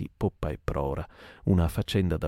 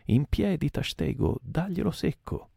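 shouted order; 10 semitones higher than usual. Acted. Mate shouting to Tashtego to throw the harpoon. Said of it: "il grido benedetto".

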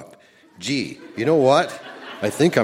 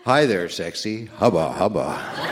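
sexy voice; 2 semitones lower than usual. Pretend. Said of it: "voice saying".

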